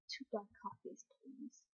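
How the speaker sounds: meekly repeating his order, very soft; meek, resigned. Retold or imitated. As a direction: give in quietly, deflated. Gong Sil meekly gives in.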